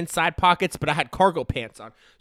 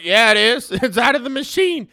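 put-on high, loud insisting kid; high, loud, laughing protest; insistent kid; 6 semitones higher, 7 dB louder than usual.

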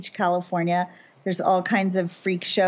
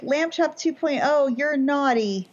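higher, playful tutting; mock scolding the toy; 5 semitones higher than usual. Sasha scolding her stuffed animal, playful and higher. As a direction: tease the puppet like a naughty child. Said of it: "I'll be like".

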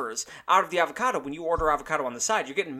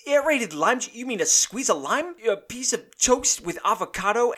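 much higher, cut-off scoff; high incredulous scoff; mocking disbelief; 7 semitones higher than usual. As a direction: throw the fancy wording back in mock amazement. Mocking the menu's fancy wording.

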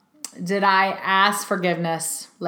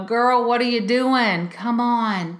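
mock self-scolding; 4 semitones higher, slower than usual. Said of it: "shake myself and go".

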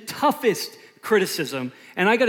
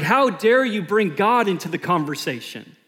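indignant; 5 dB louder than usual. Retold or imitated.

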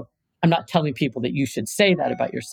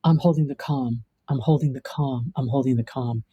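calming mantra; 4 semitones lower than usual. Shown as a demonstration. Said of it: "when I say something powerful like".

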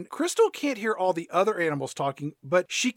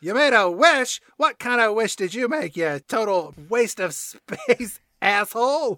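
mocking cat; 3 semitones higher, 4 dB louder than usual. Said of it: "Grumpy Cat mocking Crystal".

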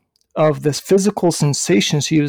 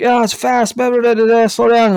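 high-pitched mock coach chatter; put-on high voice, dismissive blah-blah; imitated protesting coach; 7 semitones higher than usual. Acting out the coach's quick protests.

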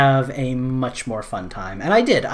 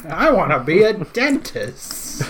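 laughing; 5 semitones higher, slower than usual. Retold or imitated. Repeating the elf line, laughing.

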